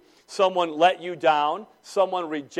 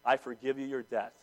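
softer, gentle pardon; gracious forgiveness; 3 semitones lower, 5 dB quieter than usual. Retold or imitated. The gracious Lord pardoning the debtor, gently. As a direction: let him off kindly, quietly. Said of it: "the gracious Lord says".

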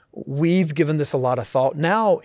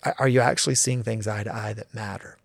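deeper question; 3 semitones lower, 3 dB quieter than usual. Shown as a demonstration. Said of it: "a deeper level".

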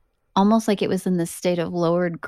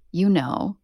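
creepy. Retold or imitated. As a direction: say it creepily, like a hidden threat. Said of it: "I think creepily".

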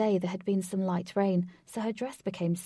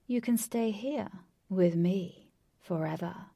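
lordly villain; 4 dB louder than usual. Acted. Villain asking Katie to stay with him, lordly. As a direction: lay out the offer with measured grandeur.

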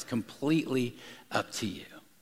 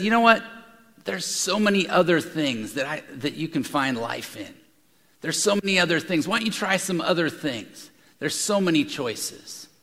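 tempting voice of the world. Acted. The world tempting listeners away, lightly coaxing. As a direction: coax like a salesman.

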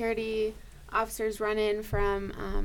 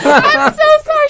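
much higher, louder, frantic sorry; frantic apology; 18 dB louder than usual. Retold or imitated. Nurse to her EMT after running over her foot, frantic. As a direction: blurt the apology mid-run.

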